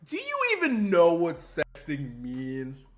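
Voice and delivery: slow, smug imitation of Doc; mock Doc. Streamer mocking Doc's smug dodge, slow and smug. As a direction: drag it out like a smug lawyer. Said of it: "he's like".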